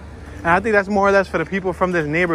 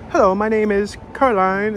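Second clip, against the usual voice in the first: higher-pitched mock British accent; 5 semitones higher than usual. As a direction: imitate a woman's British accent. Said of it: "she has a really strong accent".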